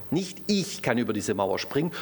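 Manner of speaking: "ich" singled out after "Nicht"; stress on ICH. Shown as a demonstration. Preacher rejects relying on oneself, stressed ICH. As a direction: put the contrast firmly on "ich". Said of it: "liegt die Betonung auf".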